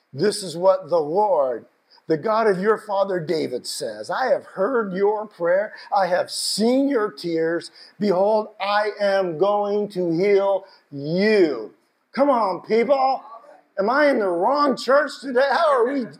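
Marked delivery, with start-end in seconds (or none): 0.1-11.7 solemn scripture reading. Acted. Reading God's words slowly.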